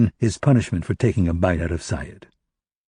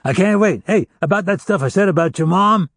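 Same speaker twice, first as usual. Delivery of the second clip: higher, mock-cheerful, dripping with sarcasm; feigned enthusiasm; 9 semitones higher than usual. Hostage mocks the captor with feigned enthusiasm. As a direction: fake delight to mock his torturer. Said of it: "with feigned enthusiasm".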